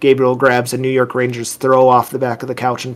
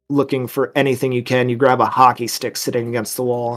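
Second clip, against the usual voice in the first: ordinary delivery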